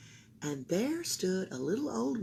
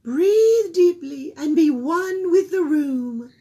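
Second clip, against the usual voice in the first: soothing therapist; 10 semitones higher, 10 dB louder, slower than usual. A narrator's reading. Therapist voiced in story.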